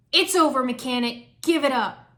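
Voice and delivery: firm command. Acted. Hero confronts cornered villain.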